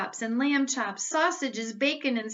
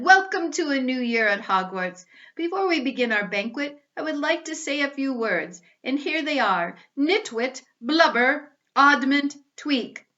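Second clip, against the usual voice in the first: much higher, much louder beaming greeting; booming welcome; 4 semitones higher, 6 dB louder than usual. Acted. Dumbledore welcomes the students, booming and beaming. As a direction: greet the whole school grandly. Headmaster's cheerful speech.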